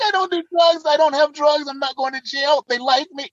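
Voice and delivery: high-pitched, giddy relief retold; playfully elated self-quote. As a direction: gush it high, acting out elation. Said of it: "I'm like elated".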